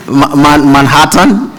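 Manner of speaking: Manhattan stumbled out in pieces, Man- restarted; halting attempt at Manhattan, Nigerian vowels; struggling with Manhattan. Shown as a demonstration. Nigerian immigrant fumbling the word Manhattan, halting. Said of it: "too close to Hamatan".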